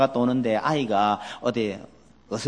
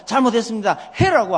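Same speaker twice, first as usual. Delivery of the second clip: put-on a higher, louder childlike apology; mock confession; 9 semitones higher, 5 dB louder than usual. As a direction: sing out the apology as the child should. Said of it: "뛰어나와서".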